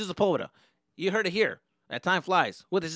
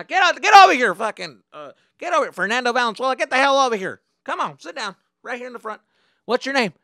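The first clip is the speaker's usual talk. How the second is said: high, loud, impatient orders; angry driver; 9 semitones higher, 11 dB louder than usual. Retold or imitated. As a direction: order the troublemaker up front. Bus driver orders him forward.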